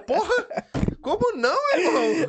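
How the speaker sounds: high, loud disbelieving cry; how could you not, outraged; shocked protest. Real, not acted. Host protests guest's modesty. (indignado e surpreso)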